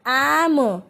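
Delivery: am with a long open 'ae'; sounded-out example. Shown as a demonstration. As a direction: stretch the vowel in am. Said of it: "the sound of A". (am में खुली 'ऐ' की आवाज़)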